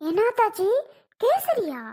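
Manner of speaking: lilting high mock, stretched out; high singsong tease. Teasing the brother about kesari, high singsong. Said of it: "பாடுறத பாரு".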